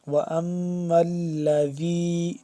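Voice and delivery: slow recitation with a soft ذ in الَّذِي; "الَّذِي" with a soft, unforced dhal. Shown as a demonstration. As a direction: chant الَّذِي drawn out, dhal said gently. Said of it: "ذال کو نرمی سے پڑھیں گے".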